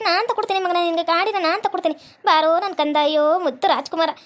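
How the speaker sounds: doting mother. Acted. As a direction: coo over him like a mother with her darling boy.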